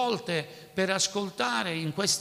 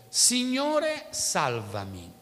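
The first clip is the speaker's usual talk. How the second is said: understated plea of a man going under; mild cry for help; 2 semitones higher, 4 dB louder, much slower than usual. Retold or imitated. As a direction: plead to be saved as you sink. Sinking Peter cries for help.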